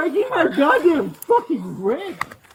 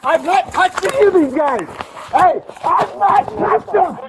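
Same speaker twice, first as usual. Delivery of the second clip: heated, raised voice, insisting; angry protest. Real, not acted. Protests his innocence during arrest.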